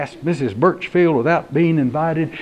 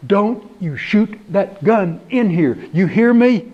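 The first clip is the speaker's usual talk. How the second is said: rising, firm warning; scolding; 4 semitones higher than usual. Acted. Homeowner scolding deputy about his gun, firm. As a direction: tell him off sharply.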